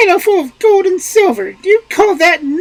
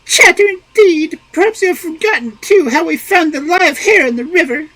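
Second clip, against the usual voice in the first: higher, louder outraged cry; outraged wife; 8 dB louder than usual. A narrator's reading. Wife outraged at husband calling her chatter, crying out. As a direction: cry out in offended protest.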